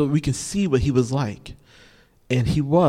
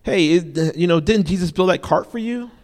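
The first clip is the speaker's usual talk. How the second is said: higher, mock-astonished neighbour; a light nudge of disbelief; hint of a gossiping villager; incredulous neighbour; 4 semitones higher than usual. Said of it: "it's like".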